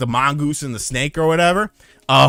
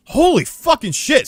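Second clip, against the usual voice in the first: high-pitched retold shock; shocked outburst; 11 semitones higher than usual. Driver to passenger after the near crash, shocked. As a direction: blurt it out in high, stunned disbelief.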